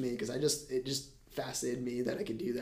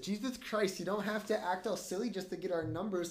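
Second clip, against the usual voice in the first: mock-flirty goofiness, pitched up; acting weird; 3 semitones higher, 5 dB quieter than usual. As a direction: imitate your own goofy put-on act. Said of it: "I just acted really weird".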